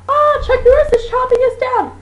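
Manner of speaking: high laughing scream of panic; a hammed-up shriek for help from a tree; mock scream. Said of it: "We'll just scream".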